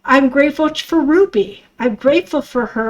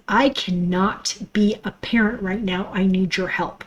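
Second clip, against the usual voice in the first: hushed, unvoiced plea; desperate whispered plea to the ex-husband; begging whisper; 4 semitones lower, 6 dB quieter than usual. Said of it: "I begged him".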